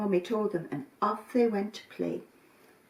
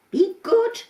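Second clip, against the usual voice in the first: mother's goodbye; 13 semitones higher, 8 dB louder than usual. Acted. Mother says goodbye to kids.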